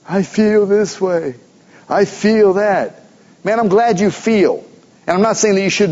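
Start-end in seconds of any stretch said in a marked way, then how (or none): 0.1-3.0 slow, drawn-out mock complaint; mocking whiny feelings. Preacher mocks churchgoers who talk about feelings, slow mock whine. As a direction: lightly parody people whining about their feelings. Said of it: "I'm so tired of hearing about how everybody feels".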